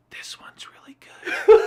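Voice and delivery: high airy whisper. Retold or imitated. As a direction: whisper it like an ASMR video. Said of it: "and then she whispers".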